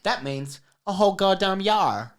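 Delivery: playful pirate voice on yar. Pretend. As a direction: say it like a hammy pirate. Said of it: "speaking like a goddamn pirate".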